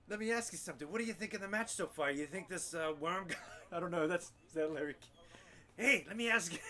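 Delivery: lightly voiced talk-show host; Larry King. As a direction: ask it like an old TV interviewer. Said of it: "by the name of Larry King".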